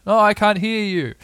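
high, loud call over wind; shouting. A narrator's reading. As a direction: shout as if drowned out by a gale. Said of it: "holding on to each other and shouting".

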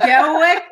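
laughing, questioning "Dewick" with a W. Retold or imitated. Podcaster querying co-host's version, "Dewick" with W for R. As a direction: echo "Dewick" with a W, pitch up. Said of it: "So you say R's are like W's?".

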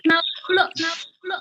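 choppy broken connection; glitchy jumping pitch. Real, not acted. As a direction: voice breaking up, fading out. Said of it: "suaranya putus-putus".

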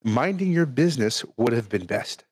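hushed nature documentary narrator reading. Retold or imitated. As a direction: read it like a calm documentary narrator. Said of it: "I'm gonna use my narrator voice for this".

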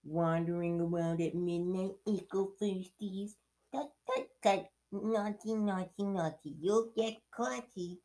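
high, slow sing-song taunt; mischievous poltergeist chiding; cackling Peeves. Acted. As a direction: tease them in a high, drawn-out voice. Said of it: "Peeves cackled".

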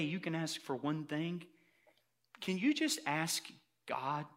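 put-on hesitant, softening childlike request; little boy pleading. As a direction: plead gently, like a kid asking a favor. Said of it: "The little boy says".

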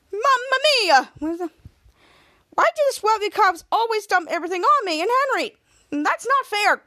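high, loud indignant complaint; exasperated whining. Retold or imitated. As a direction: wail about the unfairness, hammed up. Ray complains about being dumped on.

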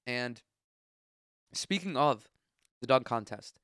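congested, stuffy nose voice; blocked nose. Real, not acted. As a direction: talk through a blocked nose. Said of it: "I'm so congested today".

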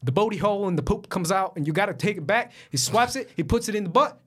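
hammed-up Philly pitchman; crazy Philly accent. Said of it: "he does a crazy Philly accent".

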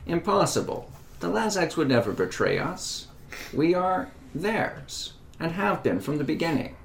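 disbelieving retort. Acted. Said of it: "Disbelieving retort".

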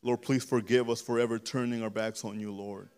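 earnest, steady spoken prayer; fervent prayer. Real, not acted. Preacher praying aloud for the congregation, fervent prayer. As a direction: plead with God in an unbroken flow.

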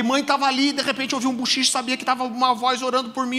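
high-pitched breathless rush of a report; acting out an alarmed teenager telling mother; frantic retelling. Retelling his panicked report to mother.

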